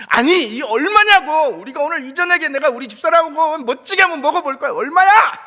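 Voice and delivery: loud, high, slowed for emphasis; insistent loud demand. Retold or imitated. Grandpa shouts at the manager for the price. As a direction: stamp each word like he's paying. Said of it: "그렇게 얘기했대요".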